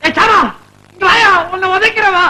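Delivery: angry summons. Acted. Man summoning Sama to confront him, angry call. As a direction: call him over as if for a kicking.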